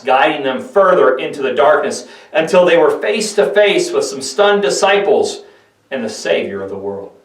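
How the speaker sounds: ordinary delivery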